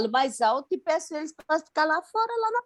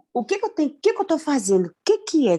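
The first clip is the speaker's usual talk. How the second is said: mildly puzzled self-questioning, slightly raised pitch; retold bewilderment; 3 semitones higher than usual. Student recalls questioning herself during prayer, bewildered. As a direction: act out asking yourself in confusion.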